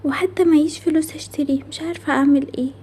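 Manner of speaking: whispered wish, sad and longing. Acted. Child sadly wishing for lantern. (همس حزين بحسرة)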